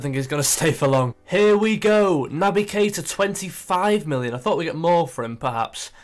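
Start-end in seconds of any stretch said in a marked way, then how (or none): 1.3-4.3 transfer news announcer. Pretend.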